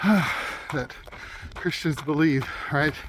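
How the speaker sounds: talking through a face mask; muffled speech behind a cold-weather mask. Real, not acted. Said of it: "Hopefully you can hear me with the mask on".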